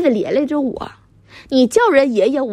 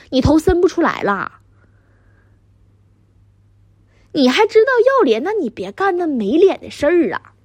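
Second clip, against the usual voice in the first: angry scolding; 3 semitones higher than usual. Acted. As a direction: berate him for being useless. Wife berating husband over son's job. (气急败坏地数落)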